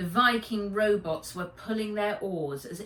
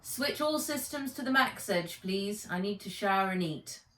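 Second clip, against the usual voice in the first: Nat giving orders; 2 semitones higher than usual. Acted. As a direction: snap out the orders, then tired. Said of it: "said Nat".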